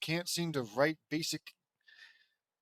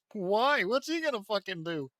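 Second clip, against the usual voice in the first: higher, loud indignant snap; angry outburst; 6 semitones higher, 4 dB louder than usual. Acted. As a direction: fire it back in outrage. Reader voices an outburst.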